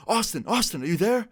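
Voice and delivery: high-pitched mock phone yell; imitated yelling. Friend calling Austin on speakerphone, mock yelling. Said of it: "he's, like, yelling".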